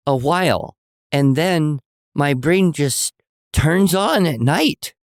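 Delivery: put-on high, earnest little boy explaining, slowing down. A mother hears her small son's high, earnest plea. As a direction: play an eager six-year-old pleading his case. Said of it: "And he goes".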